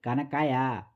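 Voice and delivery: "खाना खाया?" in a South Indian accent, with खाना and खाया said without the breathy kh, as kana kaya. Shown as a demonstration. Teacher showing students a South Indian accent in Hindi. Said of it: "तो वो कैसे बोलेगा".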